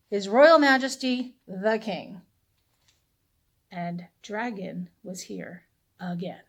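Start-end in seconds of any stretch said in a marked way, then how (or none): 0.1-2.2 mock proclamation. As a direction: read the sign like a herald. Villagers' sign read out grandly.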